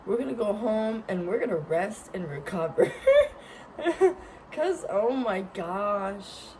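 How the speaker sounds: laughing through the words. Real, not acted. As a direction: laugh while saying it. Laughing at own plan.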